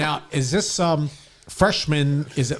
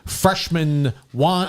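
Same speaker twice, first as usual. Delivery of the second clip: slow booming ballpark PA call; Dan Baker announcer; slower than usual. Pretend. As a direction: stretch the name like a stadium announcer. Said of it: "I'm trying to do my Dan Baker impersonation".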